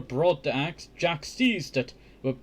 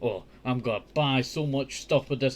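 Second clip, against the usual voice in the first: mock mother; faster than usual. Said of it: "his mother's just saying".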